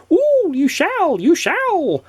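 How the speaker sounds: slow, very high teasing goblin; grinning goblin. A narrator's reading. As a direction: draw it out with a goblin grin. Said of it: "grinned the goblin".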